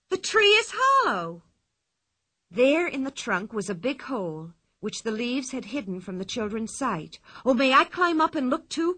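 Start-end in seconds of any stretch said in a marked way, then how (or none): 0.1-1.4 put-on high, louder child's voice, excited; Pippi's voice. A narrator's reading. 7.4-8.9 Tommy calling, higher and louder; eager boy asking to climb up too. A narrator's reading. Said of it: "called Tommy".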